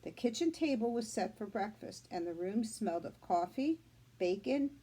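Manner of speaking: put-on reading aloud to children; teacher reading a chapter book to her class; story reading. A narrator's reading. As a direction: tell the story to the class, clear and gentle.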